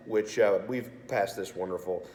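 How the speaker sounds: raspy, sore-throated voice from sinus infection; hoarse, like swallowing razor blades. Real, not acted. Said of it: "why I sound like I swallowed a bunch of razor blades".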